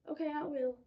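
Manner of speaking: loud eager answer; eager reply. Acted. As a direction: call it out eagerly. Boy answers brother loudly.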